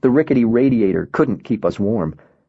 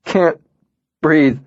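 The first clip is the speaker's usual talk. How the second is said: high, strained panic, louder; panicked gasp; 5 semitones higher, 4 dB louder than usual. Acted. Colonel gasping to Miles on the ground, high and louder. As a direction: force the words out through panic. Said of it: "he is hyperventilating".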